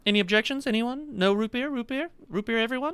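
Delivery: high, creaky greedy waiter voice; creaky greedy chomping chest. Acted.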